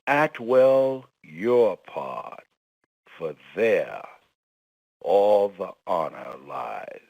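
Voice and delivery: slow, weighty recital of a motto; solemn slow quotation of a mentor's motto; quoted maxim. Acted. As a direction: deliver each word slowly like a creed. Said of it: "Mister Washington's favorite quote".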